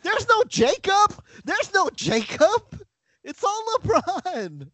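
high-pitched, drawn-out outcry; mock conspiracy rant. Host revealing his conspiracy theory, hammed-up and high. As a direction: crack the case in a high, slow wail.

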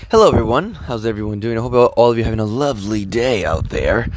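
lightly put-on announcer voice; a hint of a silly host voice. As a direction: greet them in a mock radio voice. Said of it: "I just wanted to put that voice".

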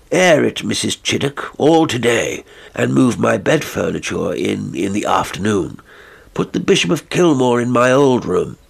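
a country gentleman snapping out instructions; commanding squire. Acted. Sir Richard gives orders.

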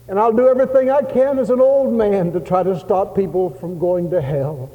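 high, loud, impassioned promise; fervent vow. Retold or imitated. Old missionary promises the Lord, fervently crying out. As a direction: vow it with all you have. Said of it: "he said".

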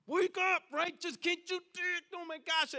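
high, strained cry of frustration, acted out; exasperated plea. Parent to a struggling loved one, exasperated. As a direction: plead in exasperation, pitched well up.

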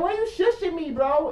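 high-pitched incredulous question; hammed-up indignant whine; indignant protest. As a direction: squeal it in offended disbelief. Retold protest at being shushed.

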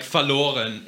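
verloren with a light English R; slight R in verloren. Shown as a demonstration. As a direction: soften the R in verloren. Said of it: "putting a slight R on their R".

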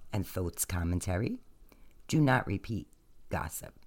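measured, solemn reading voice; scripture reading. Acted. Reading ancient tablets aloud to listeners, solemn recital. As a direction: read each verse like holy writ. Reads next chapter aloud.

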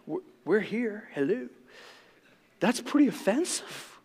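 a Pharisee sulking at Jesus' rudeness; whiny offended Pharisee. Retold or imitated. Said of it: "this is my imagination a little bit".

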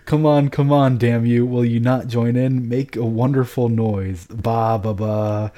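rally the guests to join in; boisterous urging. A narrator's reading. Drunken emperor urging his guests to make noise, boisterous and loud.

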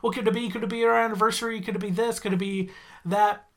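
lightly voiced panicky Homer thinking aloud; stressing out. Homer panicking inside over a forgotten occasion, fretful. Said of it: "Homer sort of stressing out with this inner monologue".

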